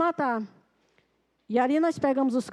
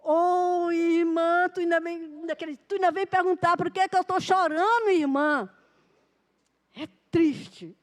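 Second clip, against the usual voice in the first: pitched up, pleading and bitter; a hint of tearful complaint; distraught farmer; 3 semitones higher than usual. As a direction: voice the grieving man's protest. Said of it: "Aí ele".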